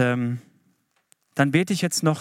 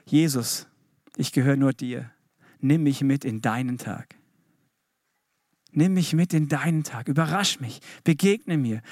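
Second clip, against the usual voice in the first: heartfelt prayer. Shown as a demonstration. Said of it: "Ich sag dir, wie das Gebet wirklich klingen muss".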